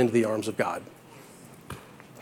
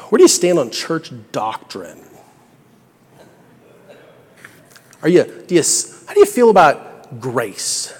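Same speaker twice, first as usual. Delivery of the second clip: flustered heaven supervisor; 4 dB louder than usual. Retold or imitated. Supervisor questioning the criminal on doctrine, loud and exasperated. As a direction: stall and fumble like a lost bureaucrat. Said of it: "can you imagine the supervisor?".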